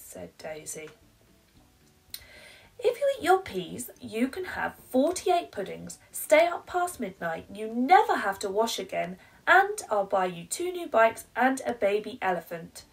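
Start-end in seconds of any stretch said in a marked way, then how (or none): 2.8-12.8 higher, louder and fast bargaining; pleading mum. Acted. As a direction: bribe the child, getting more eager. Mum bargaining, growing wilder.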